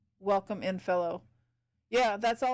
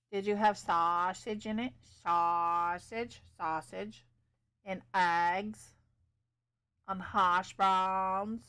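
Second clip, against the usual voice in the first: weird playful voice; slower than usual. Pretend. Streamer idly listing breakfast foods to a viewer, weird drawl. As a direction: draw the breakfast words out in a silly way. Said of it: "I have no idea why I'm talking like this".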